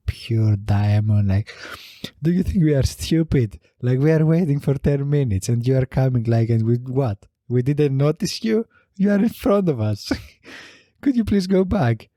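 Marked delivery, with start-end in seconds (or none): 2.2-12.1 indignant raised voice, imitating the woman; snapping at the line-cutter, mock outrage; retold queue argument. Woman scolding the queue-jumper, indignant and raised.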